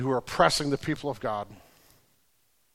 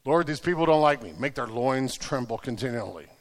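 low, softened prayer, dropping away; understated imitation of someone praying; deadpan mock prayer; 3 semitones lower than usual. Mock-prays the uncomfortable verse.

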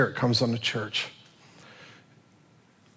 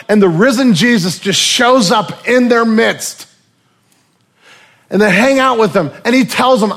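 loud, high, driving sermon delivery; preaching at full force; 9 semitones higher, 9 dB louder than usual. Acted. Preacher retelling Peter's story to his congregation, at full force. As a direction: preach it out to the whole room.

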